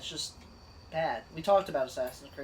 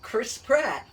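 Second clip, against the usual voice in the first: Mario voice; 6 semitones higher, much slower than usual. Retold or imitated. Mario impression with Chris Pratt.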